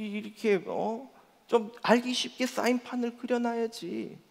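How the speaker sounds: 출근길에 점점 격해지는 불평; complaining. Retold or imitated. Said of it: "불평과 원망이 시작되죠".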